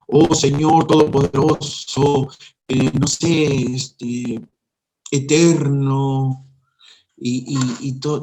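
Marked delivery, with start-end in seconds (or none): 0.1-6.5 mock pompous prayer. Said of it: "no necesitas grandes palabras".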